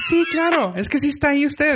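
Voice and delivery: high, dopey phone-agent voice; voz de tonto. Retold or imitated. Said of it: "pues que voz de tonto". (voz de tonto aguda)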